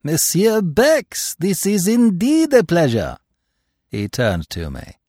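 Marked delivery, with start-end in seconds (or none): 0.0-3.2 high-pitched, drawn-out joyful greeting; delighted. A narrator's reading. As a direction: greet an old friend with lit-up delight. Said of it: "Poirot's face had lighted up".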